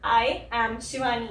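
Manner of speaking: I said as a clear eye sound; I am Shivani with a full eye vowel; pron demo. Shown as a demonstration. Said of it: "अगर आप ध्यान से सुनो". (I का सही उच्चारण)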